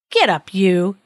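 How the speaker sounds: brusque storybook order, a touch forceful; gruff command. Acted. Judge's man orders the disguised king to his feet, gruff command. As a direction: order him up with mild gruffness. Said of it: "he commanded gruffly".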